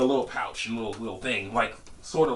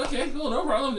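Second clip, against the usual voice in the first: eager compliance; 14 semitones higher than usual. Retold or imitated. Plays along with supposed initiation.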